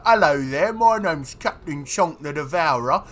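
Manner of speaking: mock broad Cockney pirate captain; overdone Cockney, playing it up; hammed-up Cockney accent. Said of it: "it's more ... more refined".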